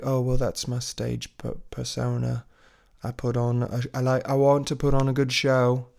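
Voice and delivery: shy, lightly put-on British accent. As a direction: imitate a reserved performer with a hint of British. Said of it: "I don't think she's British".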